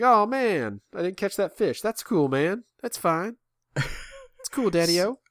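playing it chill. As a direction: fake breezy calm over a lost fish. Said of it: "try and play chill".

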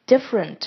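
"different" in two syllables, middle vowel dropped; elided middle vowel. Shown as a demonstration. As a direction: say "different" as DIF-rent, skipping the schwa. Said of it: "可以省略不念".

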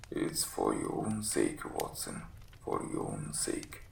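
very low, croaky sick man's voice; croaking invalid. Acted. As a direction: croak it out weakly from the sickbed. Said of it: "was croaking".

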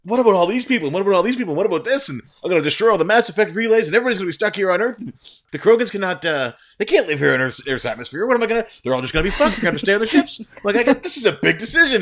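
high, loud and racing, panicked rundown; frantic listing. Retold or imitated. Retelling his ending dilemma to fiancee, frantic and fast. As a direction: rattle off every worry in a rush. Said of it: "I started listing down".

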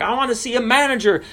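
hammed-up huffy customer; imitating angry customer. Preacher mimicking angry lady demanding the manager. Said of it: "she was mad".

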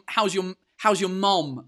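a Briton slowly attempting American "mom"; "mom" drawn out awkwardly with an ah; struggling with mom. Shown as a demonstration. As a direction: stumble slowly up to an unfamiliar "mom". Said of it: "can't even pronounce it".

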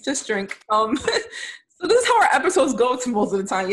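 tipsy, laughing through the words. Real, not acted. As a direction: giggle it out a bit tipsy. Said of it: "I'm a little tipsy".

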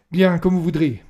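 loud, high, curt; lieutenant leaving the room, irritated. Acted. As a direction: throw it out as you get up to leave. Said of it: "lança Talon agacé".

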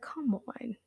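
high, slow mock-pleading tease; joking teasing. Dad teasing Q about skipping dinner, high and slow. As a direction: playfully needle him. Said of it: "And my dad's joking".

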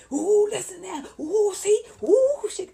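high, loud mocking imitation of Rocky gushing. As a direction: ham up Rocky fawning over her singing. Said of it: "here come Rocky".

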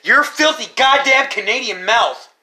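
loud, high and drawn out; slow down and belt out the insult; mock-outraged yell. Real, not acted. Ribbing a friend over an insult, mock-outraged yell.

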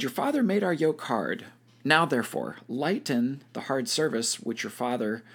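measured Bible read-aloud with lifted phrase openings; scripture reading. A narrator's reading. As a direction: read the passage aloud to a study group. Reads Bible passage aloud.

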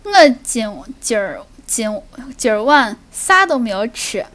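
halting Shaanxi dialect, searching for words; Shaanxi accent. Shown as a demonstration. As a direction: speak Shaanxi dialect on request. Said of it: "要不你说一下今天晚上吃了什么吧".

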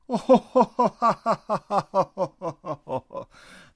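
big high booming laugh from a giant tree. A narrator's reading. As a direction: let out a huge ground-shaking laugh. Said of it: "The being laughed".

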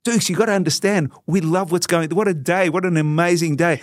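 retold high, gushing excitement; mock-emotional fan pouring it out; overcome with emotion. Emotional fan tries to make the player understand, overcome. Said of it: "I was so emotional and crying".

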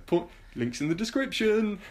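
jokey impression of a YouTube creator's outro; mock YouTuber. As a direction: play it like a cheesy YouTuber plugging links. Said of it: "It's like I'm on a YouTube video".

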